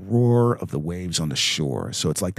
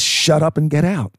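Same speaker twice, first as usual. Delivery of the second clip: louder, higher stern order; commanding; 7 semitones higher, 6 dB louder than usual. Retold or imitated. Jesus ordering the demons out, loud and stern. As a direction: bark it like a command. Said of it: "he just says".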